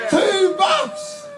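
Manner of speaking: high, punchy "Two bucks!"; emphatic shout. Acted. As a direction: fling it out, way up high. Comedian exclaims price in rant.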